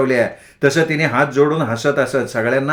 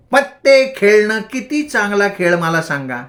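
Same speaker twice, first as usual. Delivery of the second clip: high, preachy voice; madwoman ranting; 6 semitones higher than usual. A narrator's reading. Bhagi preaching to the boys, high and odd. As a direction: lecture them like a crazed preacher.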